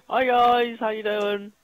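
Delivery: a light squeaky character voice; Little Nicky voice. Acted. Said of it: "doing an impression of Little Nicky".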